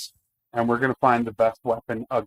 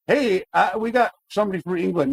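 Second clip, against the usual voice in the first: higher, quicker voice imitating a surprised viewer; mock viewer reaction; 7 semitones higher than usual. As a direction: toss it off as a teasing imitation of someone else. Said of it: "they're like".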